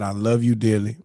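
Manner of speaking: composed declaration of love; calm, tender. Retold or imitated. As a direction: imitate a grandfather's gentle farewell. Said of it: "the man was so calm".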